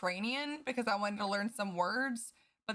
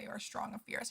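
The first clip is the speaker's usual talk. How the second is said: whispered; 8 dB quieter than usual. Real, not acted. Reading affirmation to self.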